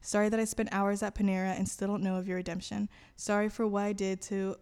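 even, measured journal reading; recited apology to God; prayer read aloud. Acted. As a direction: read a written prayer steadily.

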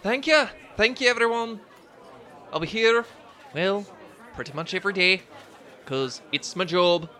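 high put-on performer voice; halfling performer. Halfling thanks the tavern crowd, high character voice. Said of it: "She says".

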